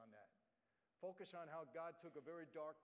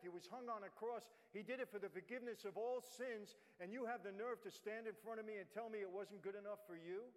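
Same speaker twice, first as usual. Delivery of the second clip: a friend's rebuke that swells louder and higher; rising rebuke; 4 semitones higher, 4 dB louder than usual. Retold or imitated. Friend scolds the speaker for doubting forgiveness, building to an indignant shout.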